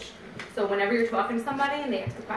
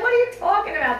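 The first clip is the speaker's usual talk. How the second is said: far higher and louder, laughing through it; laughing mimicry; 12 semitones higher, 6 dB louder than usual. Mimicking strangers who doubt the product, laughing high. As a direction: imitate the stunned stranger while cracking up.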